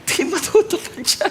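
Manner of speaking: voices Sarah with a high, doubtful laugh; disbelieving laugh. Retold or imitated. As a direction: scoff through a laugh that it won't happen. (tawang hindi makapaniwala)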